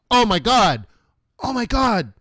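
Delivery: high, loud imitated freak-out. Monster truck guy seeing his brakes, freaking out. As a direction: gush in a hammed-up, high-pitched shout. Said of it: "He's freaking out".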